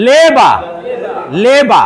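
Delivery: লেবা said the Russian way, clear L and open final a; Russian pronunciation. Shown as a demonstration. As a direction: spell out লেবা like a Russian teacher. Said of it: "লেবা উচ্চারণ". (রুশ উচ্চারণে লেবা)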